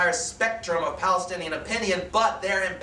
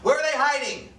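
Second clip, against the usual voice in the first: raised, demanding voice, a bit higher; screaming questions; 4 semitones higher than usual. Acted. Captain shouting questions at the women and children, raised and demanding. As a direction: bark questions at the cowering family. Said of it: "starts screaming questions at them".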